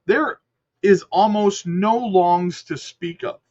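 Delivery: talking through hiccups; words broken by a hiccup. Real, not acted. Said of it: "I got the hiccups".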